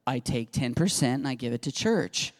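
stating the obvious; duh, matter-of-fact. Retold or imitated. Daughter telling dad how she tithes, like duh. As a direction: imitate a teen explaining something obvious. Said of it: "She said it like that, like, Duh".

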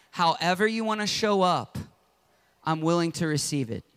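model prayer. Shown as a demonstration. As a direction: pray it gently for them. Pastor leads prayer.

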